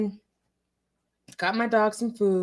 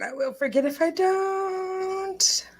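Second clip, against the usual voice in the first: whispering; 6 semitones higher than usual. Real, not acted. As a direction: whisper it under your breath. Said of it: "I feel like I need to whisper".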